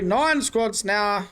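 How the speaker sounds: slow, drawn-out count like an auctioneer. Acted. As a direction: call out the squad count like an auctioneer. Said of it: "sound like an auctioneer".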